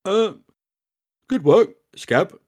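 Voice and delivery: high, loud, slow goblin voice. Acted. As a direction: say it as a wary goblin. Goblin Prig speaks, voiced character.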